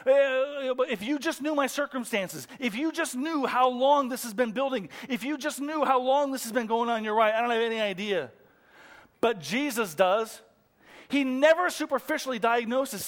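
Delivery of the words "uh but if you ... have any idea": aggrieved excuse-maker. Acted. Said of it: "I hear it all the time".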